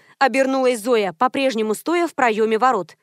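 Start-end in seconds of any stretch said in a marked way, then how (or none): none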